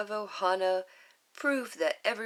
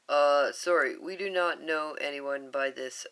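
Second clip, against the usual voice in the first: a hint of a lower alien voice; lightly voiced alien; 4 semitones lower, 5 dB louder than usual. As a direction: lower and hesitant, mildly apologetic. Voices Jumba.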